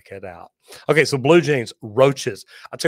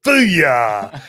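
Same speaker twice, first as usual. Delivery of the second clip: loud, drawn-out victory whoop; triumphant cheer; 2 semitones higher, 12 dB louder than usual. Pretend. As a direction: holler it like you just struck gold. Imagined triumphant cry on finding it.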